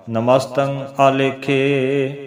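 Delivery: slow recitation with drawn-out last vowel; measured, lightly chanted verse; scripture recitation. Shown as a demonstration. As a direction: recite evenly and hold the ending. Recites verse before explaining it.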